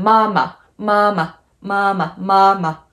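MAMA with long first syllable, short light second; neutral second syllable. Shown as a demonstration. Teacher showing doubled words, short neutral ending. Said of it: "It's very short and sweet".

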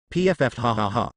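snorting burst into laughter; can't hold back a laugh; belly laugh. A narrator's reading. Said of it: "couldn't hold back his belly laugh".

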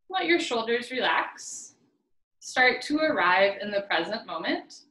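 slow, measured meditation guide; unhurried guiding voice with pauses; guided meditation. Acted. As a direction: ease listeners in with slow, spaced instructions. Leads a meditation.

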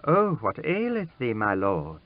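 put-on a startled young lady asking in concern; distressed girl. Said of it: "said in a distressed voice".

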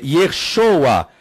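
"Yeshoa" with an o in stressed SHO; Eastern pronunciation. Shown as a demonstration. Teacher restating the Eastern form, "Yeshoa" as ye-SHO-a. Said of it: "Existe a pronúncia oriental".

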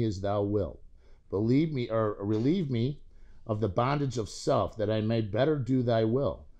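measured, formal recited prayer; prayer recitation. Acted. Reciting the third step prayer to the group, prayerful. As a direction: recite it steadily, phrase by phrase.

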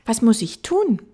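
little prince. Acted. Little prince asking the fox for instructions, high child voice. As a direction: ask keenly as a small boy.

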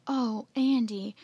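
loud, slow, panted greeting; panting. Acted. Jeff greeting Andy after running, panting. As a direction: gasp it out after running hard. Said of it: "Jeff panted".

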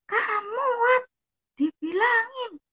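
imitated high-pitched telling-off; retold high, indignant snap; snapping scold. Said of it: "Langsung adik saya bentak-bentak saya".

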